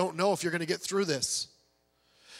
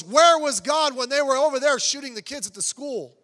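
retold outraged question, higher and louder; indignant challenge; 4 semitones higher, 5 dB louder than usual. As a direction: act out a man demanding answers. Angry man challenges missionary over shooting.

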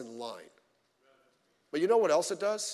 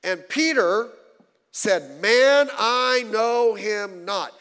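forceful, slow, emphatic reading of the denial; dramatic reading; 4 semitones higher, 9 dB louder, much slower than usual. A narrator's reading. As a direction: proclaim it slowly and loud. Preacher reads Peter's denial.

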